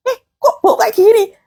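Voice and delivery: mock fussing over a strange smell; alarmed reaction. Preacher imitating family reacting to an odd smell, mock alarm. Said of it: "kalau sudah kayak begini tuh".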